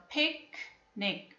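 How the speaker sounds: picnic slowly split, pic, then nic; broken into syllables. Shown as a demonstration. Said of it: "We can break here".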